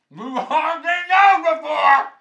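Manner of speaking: very high, drawn-out shout; loud, high, slow holler. Acted. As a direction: shout it at the top of the range. Hammed-up repeat of own remark.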